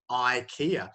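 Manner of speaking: ikea said eye-KEE-uh, the English way; English pronunciation. Shown as a demonstration. Teacher giving students an example of English pronunciation, ikea as eye-KEE-uh. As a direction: open ikea with a long "eye" vowel. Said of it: "unnatural in most European languages to say I".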